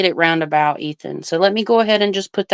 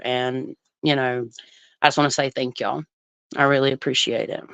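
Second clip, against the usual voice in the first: softer, lower, heartfelt thanks; soft, sincere thank-you to the viewers; sincere emotional thanks; 4 semitones lower, 5 dB quieter than usual. Real, not acted. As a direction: quietly thank everyone from the heart. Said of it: "I'm gonna get emotional 'cause it's the full moon".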